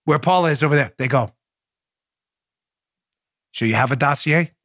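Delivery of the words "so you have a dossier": dramatic spy movie. Pretend. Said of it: "let's do the drama".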